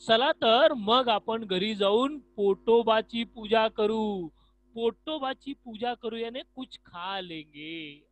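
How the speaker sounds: loud, slow, cheerful invitation to come eat; eager friend. Acted. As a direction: call your friend home to eat, loudly. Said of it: "Shamrao क्या कहते हैं?".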